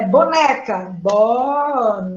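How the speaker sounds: slow, syllable by syllable bo-ne-ca; drawn out, one beat per syllable; syllables split. Shown as a demonstration. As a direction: clap out each syllable slowly. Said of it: "vamos separar as sílabas".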